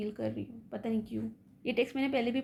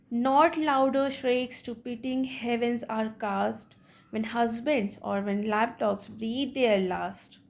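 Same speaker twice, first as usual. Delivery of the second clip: slow, measured reading of verse; poem recitation; slower than usual. Acted. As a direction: recite the couplet deliberately for a class. Reads the poem aloud. (कविता का धीमा, नपा-तुला पाठ)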